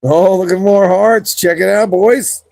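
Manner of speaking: high, drawn-out excited call; excited about the hearts; excited showing off. Real, not acted.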